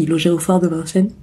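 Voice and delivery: talking through a yawn. Real, not acted. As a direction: yawn while saying it. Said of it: "Oh, pardon, j'ai bâillé".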